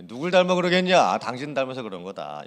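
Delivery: snapped out loud and high, then settling; angry retort. Retold or imitated. Parent blaming spouse over a child, with a sharp, loud retort. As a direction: fling the blame back at the spouse. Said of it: "이렇게 말을 합니다".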